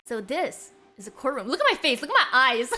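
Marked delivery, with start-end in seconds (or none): 1.5-2.7 amused, laughing through the words. Real, not acted. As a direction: tease while giggling. Teasing nervous character on screen.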